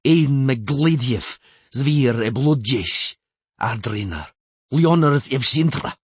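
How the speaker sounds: loud, slow ceremonial proclamation; solemn oath cry. A narrator's reading. Earl swearing to the queen with sword drawn, solemn oath cry. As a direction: declaim the oath with full force.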